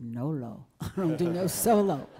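laughing refusal. Retold or imitated. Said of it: "And I said".

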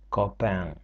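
"copain" ending in a nasal "en"; ain as nasal vowel. Shown as a demonstration. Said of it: "а і Н читається як".

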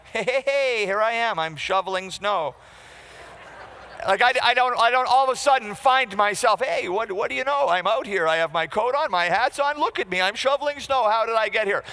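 mock cheerful surprise.

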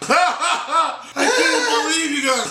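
high, drawn-out mock outrage; mock screaming. Sophia scolds the guys after the fight, high slow mock wail. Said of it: "Sophia screaming".

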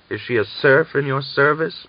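demanding. A narrator's reading. A woman demands an answer of a rival. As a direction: press him hard for an answer. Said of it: "Mirren demanded".

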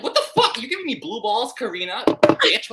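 high, laughing outraged yelp; mock outrage. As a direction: yelp at her, laughing in disbelief. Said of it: "And I'm like".

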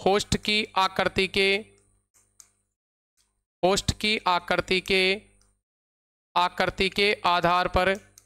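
slow, repeated phrases with long pauses; measured phrase-by-phrase classroom dictation. Real, not acted. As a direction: dictate slowly so students can write.

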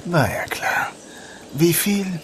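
hushed whisper; breathy aside, unvoiced. Hiding, agreeing to pay.

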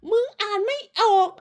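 high sing-song taunt, pulled back in volume. Real, not acted. Taunting again, softer.

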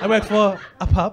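mimicking her southern pronunciation of "pub"; imitated accent. Comic imitating woman who works for pub, mock southern accent. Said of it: "She went".

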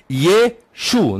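"Yeshu" split slowly into ye and shu; Western pronunciation. Shown as a demonstration. Teacher repeating the Western form, "Yeshu" in two syllables. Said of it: "a pronúncia ocidental pronunciava".

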